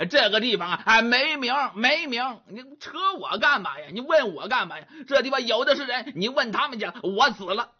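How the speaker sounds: fast, stammering, irritated protest; flustered young man. Acted. Grabbed young man protests to Monkey, fast flustered stammer. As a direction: shake him off in a rush of words.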